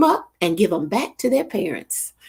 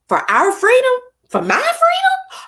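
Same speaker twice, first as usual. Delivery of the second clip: fervent cry; 3 dB louder than usual. Real, not acted. Fervent prayer for the military.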